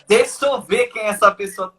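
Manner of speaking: plain but slightly pointed "Deixa eu ver quem é essa pessoa"; a touch of a knowing mutter. Retold or imitated. Telemarketer quoting what all operators say, lightly knowing. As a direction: say it as every operator does, lightly. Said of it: "todo operador de telemarketing já fez isso".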